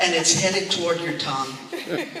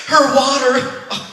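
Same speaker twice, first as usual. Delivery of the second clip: panicked yelp; 3 semitones higher, 8 dB louder, slower than usual. Retold or imitated. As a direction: yelp in mock panic as her water breaks. Panicked husband, water broke.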